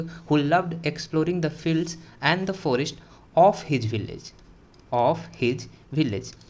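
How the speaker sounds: slow, word-by-word English model sentence; normal pronunciation demo. Shown as a demonstration. Teacher giving the literal translation for students, slow pronunciation demo. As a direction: read it out slowly with deliberate gaps. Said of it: "ये हो गया normal pronunciation".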